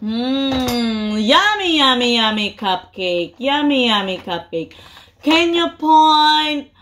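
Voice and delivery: sing-song picture book reading; reading to a toddler. Acted. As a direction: coax a toddler through a book.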